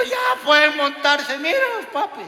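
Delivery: put-on father urging the kids on while petrified; nervous call. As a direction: push the words out through fear.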